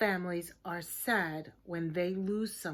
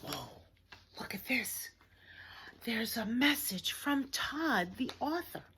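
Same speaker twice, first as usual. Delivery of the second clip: whisper; 5 dB quieter than usual. Acted. Secret message reveal.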